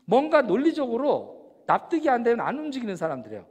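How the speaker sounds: normal talking voice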